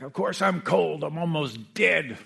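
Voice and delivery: dying woman shoots back at the aide, slow and blunt; sharp comeback. Retold or imitated. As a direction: snap it back like a tough old lady. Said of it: "Adele shot back".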